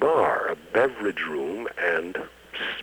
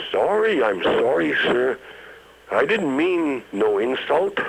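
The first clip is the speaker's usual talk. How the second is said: flustered apology; 6 semitones higher than usual. Retold or imitated. Bouncer apologizing frightened.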